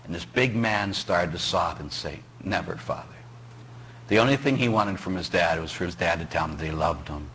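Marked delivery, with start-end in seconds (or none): 2.4-3.2 quiet broken answer. Retold or imitated. Big man sobbing after funeral.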